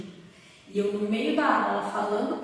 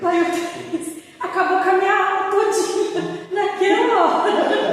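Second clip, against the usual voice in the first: laughing; 7 semitones higher, 7 dB louder, slower than usual. Real, not acted. Laughing retelling class ruined.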